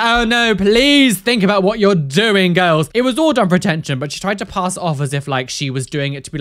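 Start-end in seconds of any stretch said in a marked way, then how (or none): 0.0-2.9 slow, emphatic mock warning; mock pleading. Posing as pioneer warning the girls, mock-earnest plea. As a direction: implore them with hammed-up concern. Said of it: "be like".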